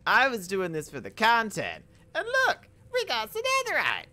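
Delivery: high, loud thrilled shout; bursting with excitement; excited. Real, not acted. Excited at finding netherite.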